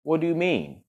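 the prince can't take it in, voice jumps up; shocked question. A narrator's reading. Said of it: "cried the prince".

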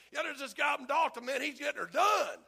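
hyped-up about the other preacher; loud bragging. Retold or imitated. Pastors at fellowship meeting hyping the Dalton preacher, loud.

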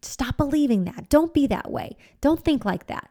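snap out of it. Acted. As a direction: briskly order yourself to stop. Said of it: "get ourselves to snap out of the thought".

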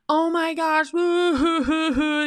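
put-on high squealing girlfriend gush; gushing excitement. Woman mimics her excited girlfriend on the phone, high giddy squeal. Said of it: "and you're calling up your girlfriends".

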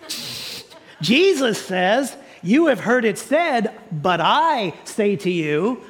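slow toy-like announcer, hushed shh; a light talking-toy imitation. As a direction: mimic a talking toy, deliberately. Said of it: "Jesus See and Say".

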